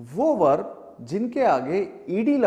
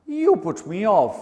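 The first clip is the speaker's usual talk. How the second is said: slow, louder mock complaint; acted annoyance; 6 dB louder, much slower than usual. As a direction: stretch out a hammed-up complaint. Acted complaint about spoiled mood.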